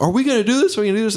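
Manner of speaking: high-pitched imitation of panicked asking; mock frantic yelling. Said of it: "they're all screaming".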